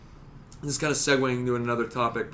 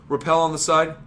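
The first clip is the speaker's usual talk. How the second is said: barking tactical callouts; 5 dB louder than usual. Retold or imitated.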